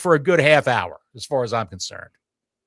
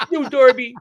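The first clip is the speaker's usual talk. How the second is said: higher, louder scolding of a pet; firmer dog scolding; 9 semitones higher, 3 dB louder than usual. Acted. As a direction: scold the puppy harder.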